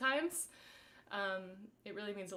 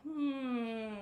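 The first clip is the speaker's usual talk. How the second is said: loosening hum; 3 semitones higher, 5 dB louder than usual. Shown as a demonstration. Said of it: "start to make some noise".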